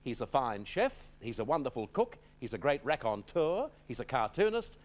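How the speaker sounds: lively talk-show build-up to a guest; guest introduction. Acted. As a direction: list the praise with rising lifts, then land the name.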